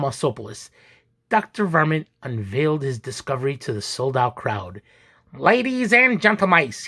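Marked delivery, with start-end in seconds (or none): 5.3-6.9 high, squeaky showman's call; squeaky announcer. A narrator's reading. Doctor presenting to sold-out crowd, squeaky announcement. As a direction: announce it grandly in a raised squeak. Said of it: "he squeaked".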